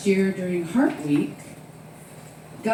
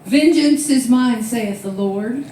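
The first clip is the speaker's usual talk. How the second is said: preacher voice; 3 semitones higher, 6 dB louder, slower than usual. Retold or imitated. Quoting scripture solemnly.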